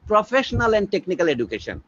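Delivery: each English word spaced out slowly; slow, deliberate English. Shown as a demonstration. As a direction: dictate the term to the listener. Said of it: "ইংরেজিতে বললে বোধহয় আরো ভালো হয়".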